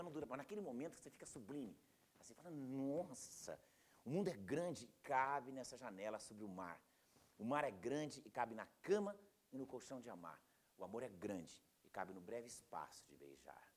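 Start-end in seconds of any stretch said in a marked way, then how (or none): 2.5-13.6 slow, hushed-ending poetry reading; slow, savoured verse; poem recitation. Acted. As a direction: recite with drawn-out wonder, letting it soften at the end. Recites a poem, moved by art.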